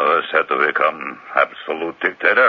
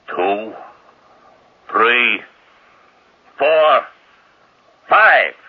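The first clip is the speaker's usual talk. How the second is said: mock countdown; 4 semitones higher than usual.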